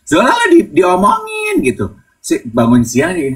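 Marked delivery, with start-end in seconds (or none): 0.0-1.6 high urgent yell; high excited mock yell; excited shout. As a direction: blurt out big news. Friends alerting Zola by DM.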